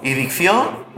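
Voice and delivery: "Ben, de bien" said very slowly, spelled out; slow word breakdown. Shown as a demonstration. Preacher breaking down bendición for the congregation, very slowly. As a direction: take each piece of "Ben, de bien" slowly. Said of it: "Viene del mismo".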